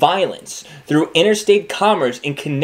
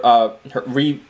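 burping. Real, not acted. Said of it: "Sorry, I'm burping a little bit".

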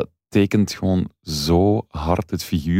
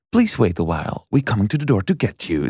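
retold doorbell robot voice in English; 3 semitones higher than usual. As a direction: imitate a robotic doorbell announcement. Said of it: "zo een bel met een robotstem".

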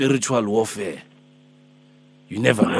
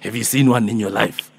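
put-on Alpheus, old man; 4 dB louder than usual. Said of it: "I'm Alpheus, I'm Alpheus".

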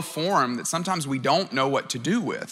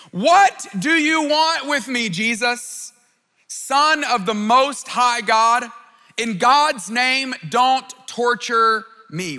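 a preacher acting out a desperate shout, higher and slower; shouting at the top of his voice; 5 semitones higher, slower than usual. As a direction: cry out to Jesus, drawn out and raised. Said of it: "and shouts at the top of his voice".

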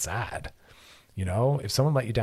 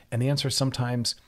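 normal talking voice

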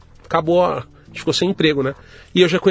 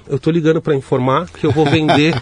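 laughing through the bluff; 3 dB louder than usual. Retold or imitated. Bluffing call, laughing at himself.

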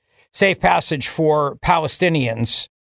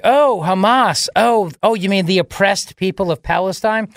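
imitating a credulous defender; mock naive reaction; 2 semitones higher than usual. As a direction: mimic a naive sympathizer. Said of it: "And it sounds like".

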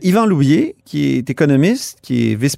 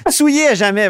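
en riant; 9 semitones higher, 4 dB louder than usual. Real, not acted. Répète la formule en riant.

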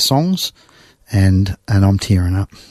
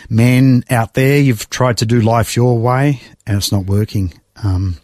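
preaching pastor. Retold or imitated. Pastor calling men forward.

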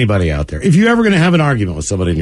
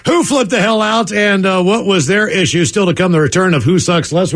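radio show tease. Acted. Host teasing what is still to come, announcer delivery. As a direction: sell the upcoming segment like a radio host.

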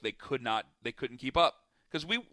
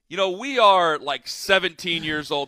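firm pipe-up; 2 semitones higher, 7 dB louder than usual. Retold or imitated. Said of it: "I had to pipe up".

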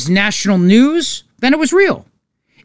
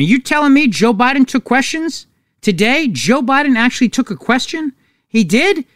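higher-pitched incredulous questioning; mock disbelief; 5 semitones higher than usual. Host voicing a listener doubting Biden took questions, mock incredulous. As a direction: play an astonished listener, voice lifted.

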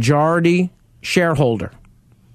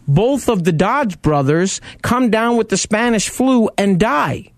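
higher-pitched, passionate storytelling; 4 semitones higher than usual. Real, not acted. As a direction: tell the history with real passion and lifted pitch. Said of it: "the passion in the speaker's voice".

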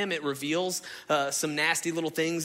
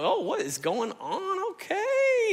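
mock party reaction; slower than usual. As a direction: stretch it out, soaring way up in pitch. Older brother reacting to party.

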